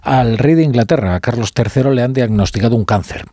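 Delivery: radio news read over a music bed; breaking news announcement. Acted. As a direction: lead with the urgent headline.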